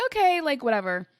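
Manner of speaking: brushing it off; waving away the astrologer's warning; dismissive shrug. Retold or imitated. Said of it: "And I was like".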